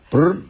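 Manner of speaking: imitated valve flutter. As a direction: mimic a fast trumpet flick. Imitating the loosened trumpet valves.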